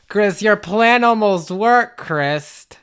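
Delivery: slow, measured villain taunt; gloating villain. Pretend. Evil role telling Chris the plan failed, measured gloat. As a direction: draw it out, savouring the near miss.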